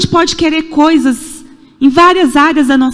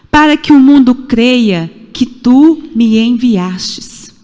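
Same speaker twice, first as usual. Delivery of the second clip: solemn scripture reading; slower than usual. Acted. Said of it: "que diz assim".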